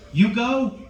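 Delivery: high disbelieving yelp; mock shock. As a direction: act scandalized. Mock outrage at audience.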